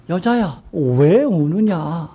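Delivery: very slow, gentle chiding question; soft, warm rebuke. Acted. Jesus softly rebuking the crying Mary, very slow. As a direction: tenderly chide her for crying, drawn out. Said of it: "이렇게 부드럽게 따뜻하게 책망을".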